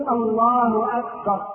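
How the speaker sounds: slow, even takbir ending in short "أكبر"; correct takbir. Shown as a demonstration. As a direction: lengthen "الله" only, keep "أكبر" short. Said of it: "لكن الصواب أن تقول". (تكبير صحيح بلا ألف بعد الباء)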